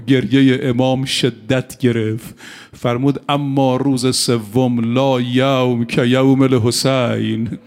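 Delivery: slow, grave elegy storytelling; mourning narration. Acted. A preacher recounting Imam Sajjad's grief to mourners, slow and sorrowful. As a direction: tell the martyrdom story slowly and sorrowfully.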